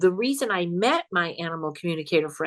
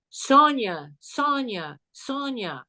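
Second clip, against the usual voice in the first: fading eerie echo; 4 semitones higher, much slower than usual. Shown as a demonstration. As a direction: call the name and let it die away like a ghost recording. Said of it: "It went like this".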